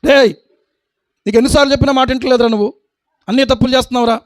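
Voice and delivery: a mild mock scolding, fast; scolding teacher. Teacher scolding a boy, mildly mocked. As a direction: rattle it off like a cross schoolmaster. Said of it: "master గద్దించాడంట".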